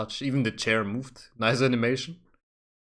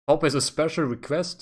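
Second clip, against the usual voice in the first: mocking repeat; 4 semitones higher than usual. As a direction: parrot the envoy, amused. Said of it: "Dang, the Pope just called me".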